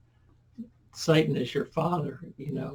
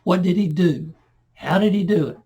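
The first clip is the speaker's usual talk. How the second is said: raised, louder voice for exasperated questioners; mock screaming; 4 semitones higher, 6 dB louder than usual. Preacher voices Pharisees questioning the healed man, mildly screaming. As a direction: demand it loudly, a mild imitation of screaming. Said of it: "are screaming".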